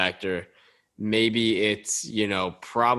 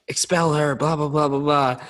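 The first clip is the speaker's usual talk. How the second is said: mock protesters; 4 semitones higher than usual. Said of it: "they're all like".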